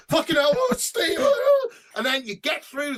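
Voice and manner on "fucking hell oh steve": amazed cry. Retold or imitated. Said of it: "you've got to go".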